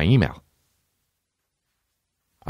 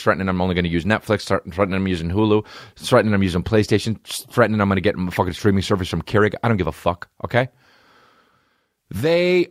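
normal talking voice

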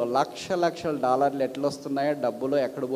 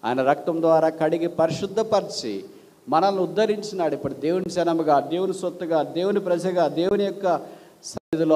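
rising, louder preacher's proclamation; preaching; 3 dB louder than usual. Acted. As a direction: proclaim it to the congregation. Opening sermon proclamation. (ఉచ్చ స్వరంలో ప్రసంగం)

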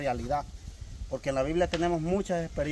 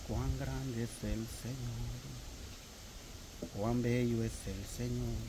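softer, slow, reverent praise; hushed praise; 2 semitones lower, 9 dB quieter, slower than usual. Retold or imitated. Grieving widow softly praising God, hushed and slow. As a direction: murmur it like a gentle hymn of worship.

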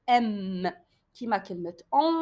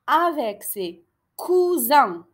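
very slow, loud dictation; lecture lente; 2 semitones higher, 6 dB louder, much slower than usual. Shown as a demonstration. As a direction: spell it out slowly for pupils. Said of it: "شوفوا لي le mot cousin". (dicté très lentement)

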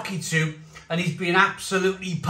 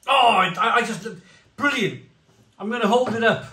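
excited; 5 semitones higher, 3 dB louder, faster than usual. Real, not acted. Overwhelmed by the taste.

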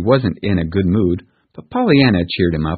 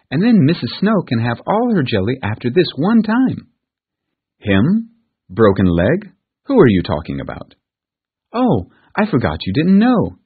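put-on higher, coaxing girl's voice; pleading little girl; 5 semitones higher than usual. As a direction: sweet-talk the aunt like a child. Pollyanna pleads with aunt.

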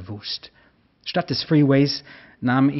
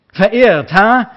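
much higher, loud mocking yell; scornful shout; 9 semitones higher, 10 dB louder, slower than usual. A narrator's reading. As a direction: scream it back in scorn. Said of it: "schrie der Mann".

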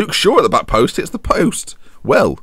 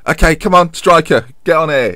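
football manager; 7 semitones higher, 5 dB louder than usual. Retold or imitated. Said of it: "he's gone".

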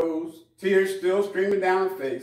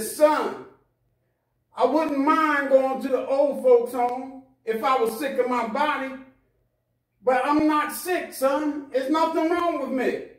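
mother pleading; 4 semitones higher than usual. Acted. Mother pleads with her son.

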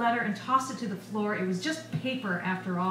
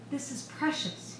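soft, slow, slightly higher; apologetic; 5 semitones higher, 5 dB quieter, slower than usual. A narrator's reading. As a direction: say it gently to make up for roughness. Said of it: "by way of apology".

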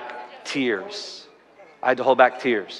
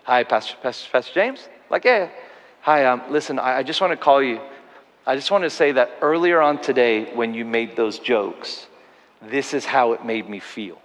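nervous caller; 4 semitones lower than usual. Retold or imitated. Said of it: "I could feel the nervousness in their voice".

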